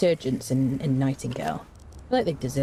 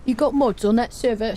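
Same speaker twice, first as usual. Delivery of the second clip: lightly voiced viewer, a touch higher and louder; mimicking a viewer; 6 semitones higher, 4 dB louder than usual. Reading a viewer's chat question aloud, mock voice. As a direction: read the chat question in a put-on voice. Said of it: "I don't know why I did your voice like that".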